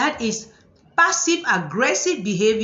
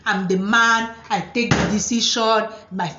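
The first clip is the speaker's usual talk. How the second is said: mock macho man. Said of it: "this typical African man thing".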